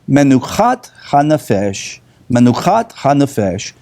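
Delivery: menuchat hanefesh with a throaty ch in menuchat; Hebrew phrase. Shown as a demonstration. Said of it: "a Hebrew phrase".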